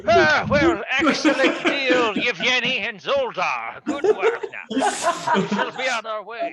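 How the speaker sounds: booming, high, drawn-out send-off; hammed-up jovial shout; loud hearty farewell. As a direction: cover an awkward moment with a big loud goodbye. Kane covers whisper with loud farewell.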